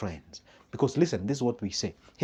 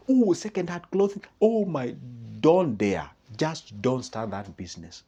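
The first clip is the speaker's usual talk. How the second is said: mock scornful friend. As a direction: sneer at the idea. Negative friend mocks business idea.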